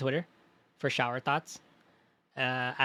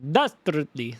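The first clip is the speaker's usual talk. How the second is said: "Dastardly" in a hammed-up Transylvanian accent; cartoony Transylvanian accent; slower than usual. Shown as a demonstration. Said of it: "sounds more cartoony".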